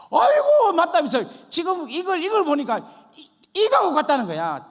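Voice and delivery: very high, loud burst of recognition; astonished exclamation. Retold or imitated. Friend recognising his dream in scripture, retold in loud amazement. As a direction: blurt it out in amazement, shouting.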